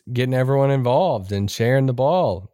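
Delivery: dry mock praise of Luka; sarcastic. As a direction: say it deadpan, not meaning it. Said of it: "you're being sarcastic".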